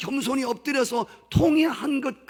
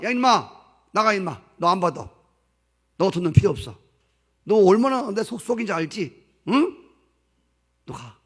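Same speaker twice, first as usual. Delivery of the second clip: louder, harsh dismissal of a worthless son; gruff angry father; 4 dB louder than usual. Retold or imitated. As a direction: bark the son out of the house. Father voiced driving son away.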